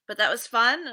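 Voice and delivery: breathless after a workout; puffing a little between words; out of breath. Real, not acted. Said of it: "I'm kind of out of breath".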